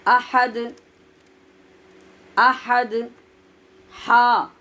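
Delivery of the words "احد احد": احد with the final دال bounced, echoing; echoing qalqalah on احد; qalqalah on dal. Shown as a demonstration. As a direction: let the دال of احد rebound. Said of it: "اور دال پہ قلقلہ ہوتا ہے".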